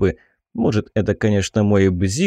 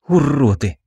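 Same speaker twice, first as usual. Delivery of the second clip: angry hiss through clenched teeth; 3 semitones higher than usual. Acted. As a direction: spit the word out through teeth. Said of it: "сквозь зубы прошипела девушка".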